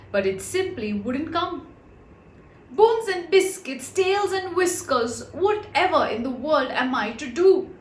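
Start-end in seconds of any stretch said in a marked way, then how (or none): 2.7-7.7 high frightened dog cry; panic, rising and loud; a dog in a fright under a jug. A narrator's reading. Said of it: "thought poor Bimbo in a fright".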